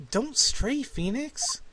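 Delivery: lightly voiced spirit guiding Phoenix; ghostly mentor voice.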